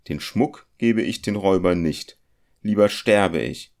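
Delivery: put-on fearful young goldsmith. Felix, the goldsmith, voiced in the story. (ängstlicher junger Goldschmied, höher und vorwurfsvoll)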